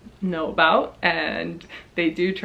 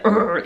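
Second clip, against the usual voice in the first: rude grunt. Retold or imitated. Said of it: "this voice that I'm putting on there".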